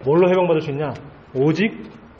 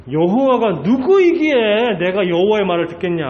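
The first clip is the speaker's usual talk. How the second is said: mocking Pharaoh; 4 semitones higher, 5 dB louder than usual. Pharaoh scorns the command of Jehovah, loud mocking. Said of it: "바로 왕이 완전히 조롱하고 있는 겁니다".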